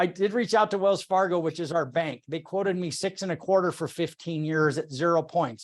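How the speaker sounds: usual speaking voice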